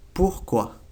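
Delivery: pourquoi with a French R, ending in kwa. Shown as a demonstration. Teacher repeats pourquoi for learners. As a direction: model pourquoi slowly. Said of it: "Se dice pourquoi".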